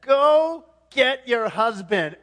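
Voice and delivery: loud, slow, weighty command; abrupt forceful order, drawn out; Jesus. Acted. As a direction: boom out each word deliberately. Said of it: "Jesus shifts gears and says".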